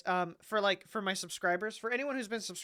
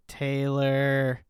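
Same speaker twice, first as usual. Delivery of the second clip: each Taylor louder and more drawn out; creepy repeated call swelling to a loud cry; eerie name call; 3 semitones lower, 12 dB louder, much slower than usual. Retold or imitated. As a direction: call her name right in her ear, growing louder each time. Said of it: "I'm in her ear".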